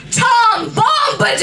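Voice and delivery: high, excited cry of the name; excited shout. Real, not acted. Reader bursting out with the name. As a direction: announce it with glee.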